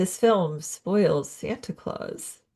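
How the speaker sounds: very quiet, hushed, soft voice. Discussing what is in a film, said very quietly. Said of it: "I have to say this very quietly".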